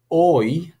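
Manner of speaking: "oi," said as the glide in joy; diphthong as in joy. Shown as a demonstration. Teacher models the diphthong, sounding it out. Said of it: "as in joy".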